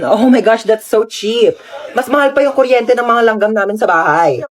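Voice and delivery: slow, drawn-out socialite Taglish, falling in pitch; lightly voiced haughty conyo; spoiled conyo rich girl. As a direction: gush like a pampered rich girl.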